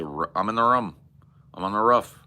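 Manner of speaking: "room" as "rum", "roof" as "ruff"; short vowels in "room" and "roof". Retold or imitated. Imitating a friend's weird pronunciations, "room" like "rum", "roof" like "ruff". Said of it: "you know, he'll say".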